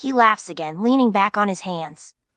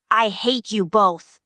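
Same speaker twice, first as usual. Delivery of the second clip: groaning; slower than usual. Retold or imitated. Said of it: "lies there on the floor groaning like".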